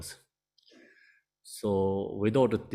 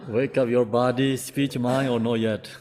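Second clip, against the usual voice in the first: louder, teasing nudge to wake up; playful rousing call; 3 semitones higher, 5 dB louder than usual. Real, not acted. Teacher teases sleepy students to wake up, louder and playful. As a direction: raise your voice and coax them awake.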